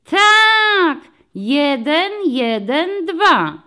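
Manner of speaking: high, loud excited shout; children's chorus. A narrator's reading. The class shouts the number back: high excited chorus. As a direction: chant it back like a happy class.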